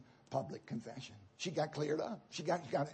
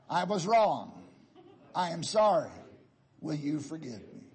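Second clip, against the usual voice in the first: louder, laughing while leading the men; laughing through it; 2 semitones lower, 4 dB louder than usual. Real, not acted. Preacher leading the men in a laughing group recital. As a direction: chuckle through the confession. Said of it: "Men, join in".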